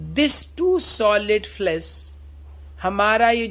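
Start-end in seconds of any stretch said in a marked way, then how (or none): 0.1-1.9 slow, drawn-out reading of Shakespeare; slow recitation. Shown as a demonstration. Teacher reading Hamlet's soliloquy to students, slow solemn recitation. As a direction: recite each word slowly and solemnly.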